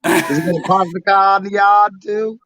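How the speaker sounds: mock Boston accent with dropped r's. Co-host mocking a man's Boston accent, in a Boston accent. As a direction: put on a Boston accent for a teasing question. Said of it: "have a Boston accent".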